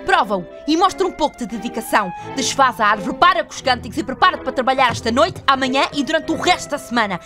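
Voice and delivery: loud, stern boss laying down orders; angry ultimatum. Acted. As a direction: rattle off threats to the staff forcefully. Boss orders staff to work, threatens dismissal.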